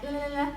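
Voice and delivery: "la la la" with the L at the front; tongue forward for each L in "la la la"; crisp demo of light L on "la la la". Shown as a demonstration. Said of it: "a light L is at the front".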